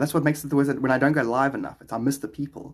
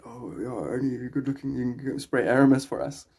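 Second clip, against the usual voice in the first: put-on voice quoting the bosses; lightly mocking quoted voice; imitating the employers. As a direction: mimic them handing out the fragrance job. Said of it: "literally, that was what they said".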